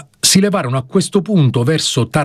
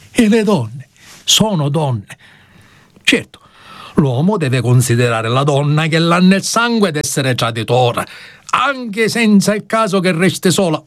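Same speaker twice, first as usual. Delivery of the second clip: rustic defendant pleading earnestly; pleading peasant; 6 semitones higher than usual. Acted. Tararà pleads before the judge and jurors, earnest peasant voice. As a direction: plead with the jurors, simple and sincere. Tararà's long plea to court.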